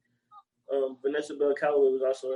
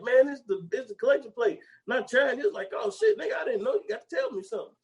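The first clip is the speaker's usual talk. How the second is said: much higher character banter; high mock voice; 8 semitones higher than usual. Retelling the collection plate bit, high mock voices. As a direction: act out both men, high and quick. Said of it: "He like".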